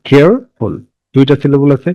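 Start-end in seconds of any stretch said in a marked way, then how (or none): 0.1-0.7 কেয়ারফুল split into two parts, care and ful; syllable by syllable. Shown as a demonstration. Teacher showing students the two syllables, কেয়ারফুল said in two separate parts. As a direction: break কেয়ারফুল after care, then say ful.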